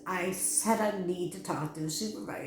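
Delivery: repeating the demand with a rising push; insist, fed up; I said I need to talk to a supervisor, firmly pressed; firm insistence. Retold or imitated.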